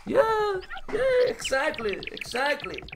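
emphatic agreement. Real, not acted.

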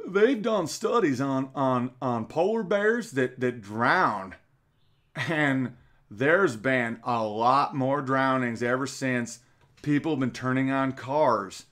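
put-on slow, halting Southern accent; Al Gore impression. Mocking Gore on polar bear drownings, slow Southern accent. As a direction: stretch the words in a mock Southern drawl. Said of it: "I'm just doing a generic Southern accent".

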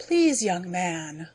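slow, gentle alien plea; pleading alien. Acted. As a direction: coax him to stop, slowly. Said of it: "the Belphin began".

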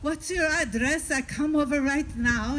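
mildly excited, keen to set off. Acted. Old man asks the finder for the address, mildly excited. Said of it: "And he's very excited".

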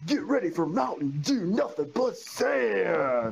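ad announcer. Acted. Reads ad slogan, slows at end.

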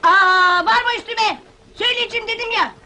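exasperated outburst rising to a called-out finish; annoyed. Acted. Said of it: "kızma, peki, kızma".

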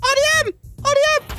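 high, excited shouting of the letters; excited call-out. Real, not acted. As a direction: call it out to everyone. Calling out game name.

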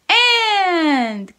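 I called out loud and high; big voice. Shown as a demonstration. Teacher shouting sight words for kids to repeat. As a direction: shout the word out for the class. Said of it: "Big voice".

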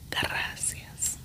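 gracias whispered with the r rolled. Shown as a demonstration. Showing the rolled r of gracias. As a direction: roll the r in gracias. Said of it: "I am able to roll the tongue".

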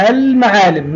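المعالم with a clearly held l; pronounced lam. Shown as a demonstration. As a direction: say المعالم as alll-ma'aalim. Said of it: "نطقناها اللام".

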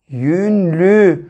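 "Yünlü" in two held syllables, "yün" then "lü"; syllable-by-syllable reading. Shown as a demonstration. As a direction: sound out "Yünlü" slowly for beginners. Teacher models blended word for pupils. ("Yünlü" sözcüğünü heceleyerek okuma)

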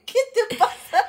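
mock astonished. Retelling her offended reaction to mom, slow laughing mock shock. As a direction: stretch the question out in disbelief. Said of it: "Y fue así de".

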